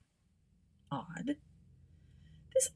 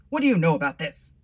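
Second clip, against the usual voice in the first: london policeman; 9 dB louder, faster than usual. Acted. Constable demands answers.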